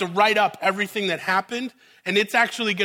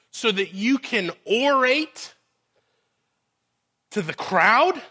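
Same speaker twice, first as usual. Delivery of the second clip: slow, disbelieving questioning of Paul; incredulous Roman official; slower than usual. Retold or imitated. Roman official to Paul, asking to speak to the mob, incredulous. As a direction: spell out the absurd request. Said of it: "Be the Roman official for a second".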